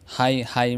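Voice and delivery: हाई with long आई, gh silent; English word high. Shown as a demonstration. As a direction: model हाई clearly. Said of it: "जीएच की आवाज़ खामोश". (हाई, जीएच खामोश)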